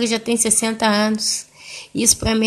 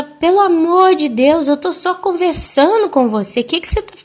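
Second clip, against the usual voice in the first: higher-pitched retold pleading; exasperated plea; 7 semitones higher, 3 dB louder than usual. Daughter only trying to talk with her mother, exasperated plea.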